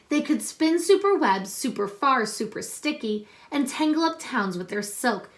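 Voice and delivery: put-on reading a picture book aloud to children; story reading. Teacher reading a superhero book to her class, storytelling voice.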